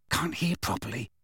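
soft, concentrating mutter. A narrator's reading. Boy eavesdropping at the door, muttering softly. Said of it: "Fred muttered, frowning with concentration".

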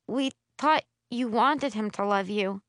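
tight, choked voice; constricted throat. Acted. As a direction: speak through a tight throat. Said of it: "I say through a constricted throat".

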